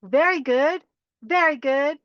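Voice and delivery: bright very good with a rising end; upbeat self-congratulation; cheerful praise. Shown as a demonstration. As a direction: praise yourself with a lift on very. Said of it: "when we're going to do this".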